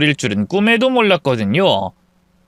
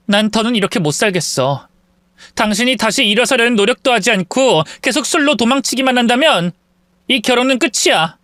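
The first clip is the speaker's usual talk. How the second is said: declaring; 6 semitones higher than usual. Acted. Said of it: "선언하듯 말했죠".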